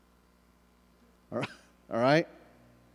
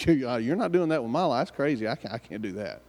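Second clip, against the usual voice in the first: mock protest. Objector refuses God's plan for their life, mock protest.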